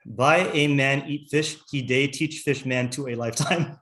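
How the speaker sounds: slow, word-by-word reading of a broken English translation; mangled translation read out. Shown as a demonstration. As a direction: read each word slowly, as if sounding out a bad translation. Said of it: "poorly translated English things".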